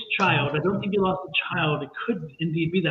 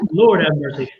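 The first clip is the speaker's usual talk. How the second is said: louder, through real laughter; louder exclamation laughed through; laughing exclamation; 6 dB louder than usual. Real, not acted. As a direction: laugh it out loud. Laughing at the heat she feels.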